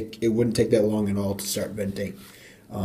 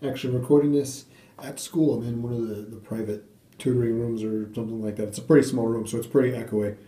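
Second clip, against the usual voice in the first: echoey room. Real, not acted. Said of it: "Sorry if it's really echoey in here".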